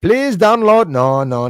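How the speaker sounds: high, loud put-on scam-caller voice; mock scammer voice. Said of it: "Why are you talking like that?".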